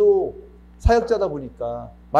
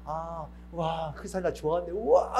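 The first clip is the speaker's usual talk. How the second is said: mock delight; 5 dB quieter than usual. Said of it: "이러고 신나".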